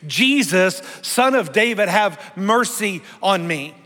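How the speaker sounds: loud, high emphatic plea; calling out. Acted. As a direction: cry out for mercy, stretching the last words. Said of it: "He called out, screaming".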